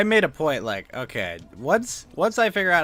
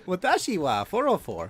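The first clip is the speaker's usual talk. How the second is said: higher, polite ordinary delivery; normie voice; 6 semitones higher than usual. Shown as a demonstration. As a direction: say it like an average guy. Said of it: "If you wanna say it like a normie".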